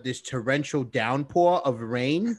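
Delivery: countryish twang, loosely Floridian; attempted Florida accent. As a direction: put on a dubious Southern Florida twang. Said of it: "that is not a Floridian accent".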